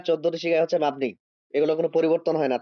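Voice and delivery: restated at a brisk clip for the student; fast teacher's recap; quick repeat. Shown as a demonstration. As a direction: rattle it off again quickly, matter-of-fact. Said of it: "কোনটা ওস্তাদ?".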